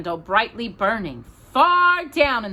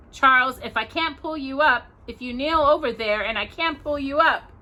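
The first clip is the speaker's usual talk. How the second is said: higher, frightened protest; fearful plea; 7 semitones higher than usual. A narrator's reading. Ma fears she can't pull Pa up, higher and frightened. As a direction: worry he can't be pulled up.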